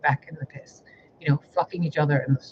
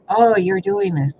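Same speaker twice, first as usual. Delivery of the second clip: slow, slightly louder mocking quote of accusers; 5 semitones higher, 6 dB louder, slower than usual. To her audience, imitating those who blame her, mocking accuser. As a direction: mimic them blaming her, drawn out. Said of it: "you guys are like".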